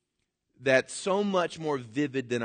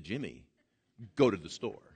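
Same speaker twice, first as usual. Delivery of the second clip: stern command; 6 semitones lower than usual. Retold or imitated. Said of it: "Brenda looked at you and said".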